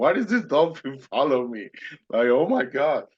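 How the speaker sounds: mock, tearful, crying delivery. Retelling being followed by a dolphin in the water: imitating own past crying. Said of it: "I started crying again".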